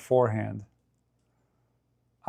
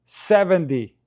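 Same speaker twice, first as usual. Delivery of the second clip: surprised; 6 semitones higher, 4 dB louder, slower than usual. Real, not acted. Shock at unforced error count.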